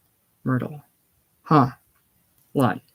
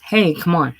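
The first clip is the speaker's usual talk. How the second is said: impatient; 2 semitones higher, 4 dB louder than usual. Acted. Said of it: "Chicken impatiently below stairs".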